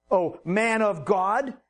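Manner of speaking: slow, mildly sarcastic "Oh, man of God". Retold or imitated. Grieving widow mocking the prophet, mild sarcasm. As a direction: lean a touch of bitter mockery into "man of God". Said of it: "you can just hear the sarcasm in her voice".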